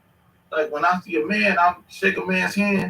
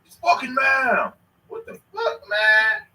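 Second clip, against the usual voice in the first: mock outraged correction; 7 semitones higher, slower than usual. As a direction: bark the correction, offended. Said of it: "It's ma'am".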